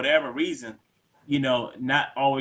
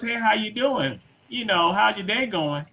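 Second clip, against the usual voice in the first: friendly greeting, imitated; 7 semitones higher than usual. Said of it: "all I said was".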